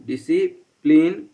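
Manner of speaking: stretched out very slowly for note-taking; slow dictation. Shown as a demonstration. Teacher dictating to students while writing, very slow. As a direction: dictate "discipline," word by word for writing. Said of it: "इसको हम थोड़ा सा लिख लें".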